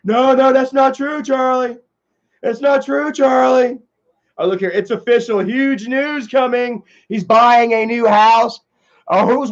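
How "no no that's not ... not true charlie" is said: higher, louder insistent denial; mock raging denial. Streamer mocking an angry rival's denials, raised pitch. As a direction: protest like a sore loser. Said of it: "He's like".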